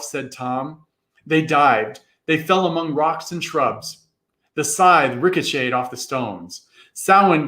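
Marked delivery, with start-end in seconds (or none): none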